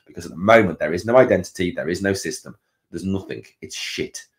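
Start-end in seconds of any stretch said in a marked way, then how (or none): 3.6-4.3 muttered curse. Real, not acted. Fan ranting about his club.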